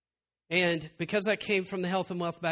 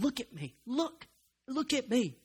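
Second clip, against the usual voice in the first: gentle summons; 5 semitones higher, 3 dB quieter than usual. Acted.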